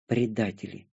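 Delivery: sulky grumble under the breath; grumbling. A narrator's reading. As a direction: mutter it in a huff. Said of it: "буркнула Светлая".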